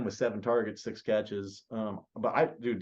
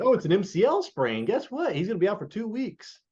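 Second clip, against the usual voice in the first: high, loud mocking voice; mock the cheerful injury report; mocking quote; 9 semitones higher, 4 dB louder than usual. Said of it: "dude, it was just like".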